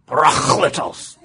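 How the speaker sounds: "parakletos" slow and loud, pa-RAKH-li-tos with a throaty Greek sound; attempted Greek pronunciation. Shown as a demonstration. Preacher trying what the website taught, "parakletos" in exaggerated Greek, pa-RAAKH-li-tos. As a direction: attempt "parakletos" in Greek, second syllable heavily drawn out. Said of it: "it's something like".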